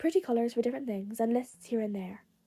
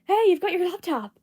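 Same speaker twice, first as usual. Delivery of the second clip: loud, higher call across the room; calling after; 8 semitones higher, 8 dB louder than usual. Acted. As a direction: shout after someone running off. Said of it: "Kirishima called after him".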